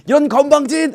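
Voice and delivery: loud, high mock indignation; hammed-up affronted roar as Goliath; acted burst of offended rage; outraged giant.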